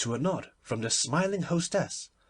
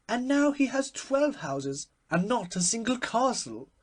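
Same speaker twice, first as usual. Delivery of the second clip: cried; 10 semitones higher, 3 dB louder than usual. A narrator's reading. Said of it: "cried Lady Windermere".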